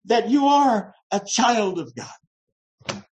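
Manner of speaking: roaring Spirit. Retold or imitated. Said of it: "and even roars to us".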